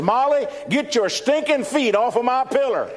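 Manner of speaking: high complaint through a laugh; punchline outburst. Retold or imitated. Teller laughs through the sleepy husband's complaint to wife, high. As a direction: blurt it out high while laughing.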